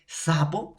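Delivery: "Sapo" with a clear stream of air on the S; airy S. Shown as a demonstration. Teacher asking students to check for air, airy S in "Sapo". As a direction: demonstrate the fricative opening of "Sapo". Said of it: "sí sale aire".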